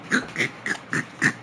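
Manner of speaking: breathy, wheezing laugh. Real, not acted. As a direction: laugh soundlessly in short bursts. Cracks up at own story.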